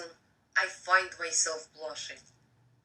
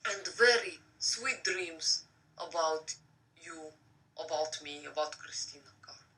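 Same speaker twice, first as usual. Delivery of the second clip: soft goodnight; 2 semitones lower, 4 dB quieter than usual. Real, not acted. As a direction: fade gently to a whisper.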